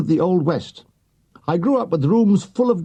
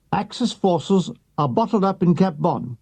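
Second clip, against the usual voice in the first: crisp radio announcer read; a lightly voiced wartime newsreader on the wireless; BBC newsreader.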